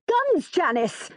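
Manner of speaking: high, drawn-out panicky exclamation; wild alarm. A narrator's reading. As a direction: cry it out slowly in alarm. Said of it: "says Mum wildly".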